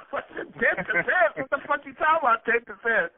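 incredulous. Retold or imitated. Rapper retelling his outrage at the store owner. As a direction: ask it like you can't believe the offer. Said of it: "I said".

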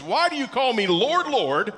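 emphatic repeat of "Lord, Lord"; stress on Lord, Lord. Shown as a demonstration. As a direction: land firmly on each word of "Lord, Lord". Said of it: "And the emphasis".

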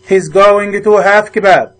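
each word spaced out slowly for the class; slow model reading. Shown as a demonstration. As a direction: spell out "He's going to have kebab" slowly for learners. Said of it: "slow model sentence then repeat".

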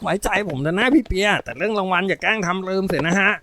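a hint of a cheeky boy; lightly voiced young boy. A narrator's reading. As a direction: lightly play the cocky kid brother. Boy character assures his sister.

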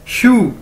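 "शू" like English shoe; "शू" said exactly like the word shoe; demonstrated pronunciation. Shown as a demonstration. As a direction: model "शू" as one clear syllable. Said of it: "जूते को English में शू".

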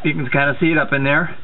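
talking while lying on back under car; strained reach, lying under the car. Real, not acted. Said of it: "Okay, I'm under the car".

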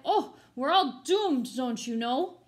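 loud, slow, hammed-up wail of doom; doctor's despair. The doctor crying out to the frightened town meeting, hammed-up despair. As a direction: cry out that all is lost. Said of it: "The doctor cried".

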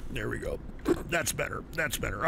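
easing off, quiet relief; relieved after a smoke. Real, not acted. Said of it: "Please excuse me".

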